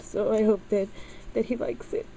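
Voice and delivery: high, breaking tearful voice; words catching in her throat; crying. Real, not acted. Daughter hoping her dad likes the gift, crying. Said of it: "I'm so emotional".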